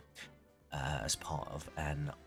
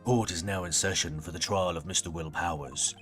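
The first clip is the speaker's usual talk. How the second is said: put-on grumpy old man. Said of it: "we gotta do the old man voice now".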